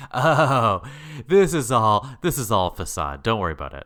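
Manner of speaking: mock-calm kid shrugging it off; unbothered girl. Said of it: "So she was like".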